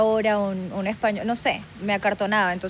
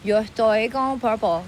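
put-on slow Miami girl name-dropping; drawn-out Spanish with Miami accent; slower than usual. (acento de Miami)

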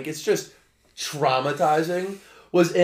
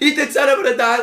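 imitated crying wail; 8 semitones higher, 4 dB louder, faster than usual. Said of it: "I was scream crying".

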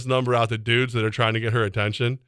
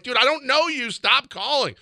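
retold brush-off; 11 semitones higher than usual. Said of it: "I'm like".

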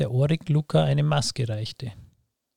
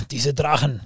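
rumbling voice; 4 dB louder than usual. Acted. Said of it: "sagte Luca mit grollender Stimme".

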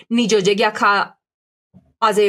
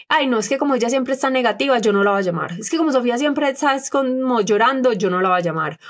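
mock dismissive friend; 3 semitones higher than usual. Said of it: "Lo peor que uno le puede hacer".

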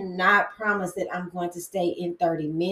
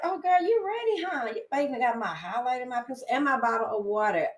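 teasing friend; 3 semitones higher than usual. Retold or imitated. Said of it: "you'll be like".

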